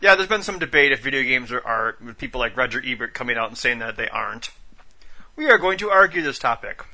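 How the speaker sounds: talking while chewing a cookie; words round a bite of cookie; mouth full. Real, not acted. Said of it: "I gotta eat this cookie".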